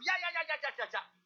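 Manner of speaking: high, frantic stream of ya; a scared man babbling to calm himself down; panicked pleading. Retold or imitated. Panicked pastor pleads with guard.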